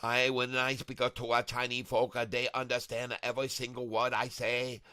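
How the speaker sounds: lightly hammed-up fake Chinese accent; put-on Chinese accent with broken grammar; mock Chinese accent. Streamer boasting of perfect Chinese, mock Chinese accent. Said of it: "I speak with such a good accent".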